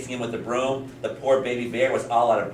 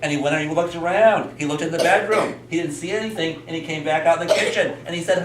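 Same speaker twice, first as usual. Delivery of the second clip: higher-pitched, lively telling for little listeners; storytelling to children; 7 semitones higher than usual. A narrator's reading. Teacher tells children about a bear trying beds, animated storytelling. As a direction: tell it like a bedtime tale, pitched up.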